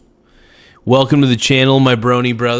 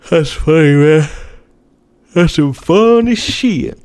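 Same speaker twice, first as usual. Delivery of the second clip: mock voice; 5 semitones higher, 4 dB louder than usual. Laughing reaction to a chat message.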